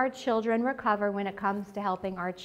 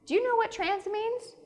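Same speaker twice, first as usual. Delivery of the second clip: loud, high disbelieving cry; mock-outraged mom exclaiming; incredulous outburst; 11 semitones higher, 10 dB louder than usual. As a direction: blurt it out, shocked he'd hush it. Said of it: "And I'm like".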